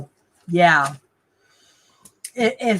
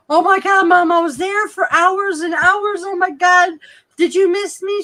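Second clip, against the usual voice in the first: excited; 8 semitones higher than usual. Retold or imitated. Retold rushing in to mom.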